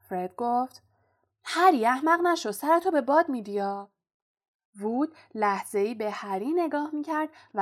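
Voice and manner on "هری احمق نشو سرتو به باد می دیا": higher, louder alarmed cry to a friend; Fred warning Harry not to be foolish, raised voice; urgent warning shout. Acted. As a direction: call him off before he gets hurt. Twin warns Harry urgently.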